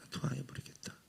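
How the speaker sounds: hushed, menacing repetition of the judgment; ominous whisper. Retold or imitated. Jesus's judgment repeated, whispered.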